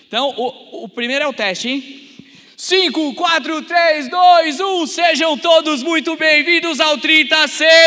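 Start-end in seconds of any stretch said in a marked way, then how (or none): 2.5-7.8 loud, high countdown, then a greeting; countdown shout, test run. Acted. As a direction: count down and call out the welcome. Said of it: "O primeiro é teste".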